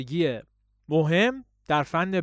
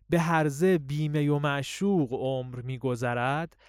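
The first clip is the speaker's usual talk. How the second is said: poem recitation. Shown as a demonstration.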